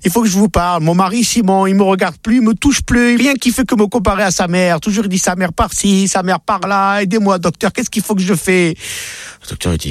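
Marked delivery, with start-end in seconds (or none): 0.0-8.7 high, pleading woman's voice, well above normal; wife begging her doctor for help in a high, pleading voice; distressed wife. Acted. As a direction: whine to the doctor about her husband. Wife Sarah complains to her doctor.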